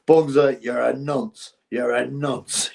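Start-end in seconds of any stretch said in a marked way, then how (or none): 1.7-2.7 slow and deliberate, each word drawn out; slowed-down teasing jab; slow drawn-out jibe. Pretend. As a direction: drag the insult out slowly to rub it in. Jokey insult repeated to viewer.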